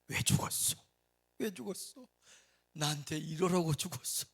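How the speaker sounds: hammed-up lament at the grave; mock wailing. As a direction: replay the mourner's bitter cry. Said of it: "얼마나 처량하게 우는지".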